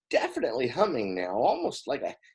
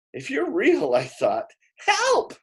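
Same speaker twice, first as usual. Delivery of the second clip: desperate plea; 11 semitones higher, 4 dB louder than usual. A narrator's reading. Boy's desperate thought.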